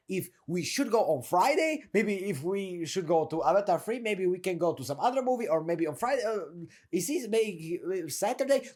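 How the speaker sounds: mock dithering, trailing into doubt; hesitant ramble through maybes and uhs; not confident. Coach imitates a guy who can't decide, not confident. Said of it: "you are not confident whatsoever".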